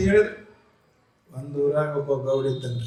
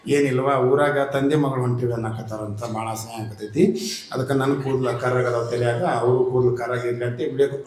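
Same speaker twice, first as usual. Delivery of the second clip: lower, subdued confession of shame; ashamed young wife; 6 semitones lower than usual. Acted. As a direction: answer low and embarrassed. Young wife explains her shame. (ನಾಚಿಕೆಯಿಂದ ತಗ್ಗಿದ ದನಿಯ ಹೆಂಡತಿ)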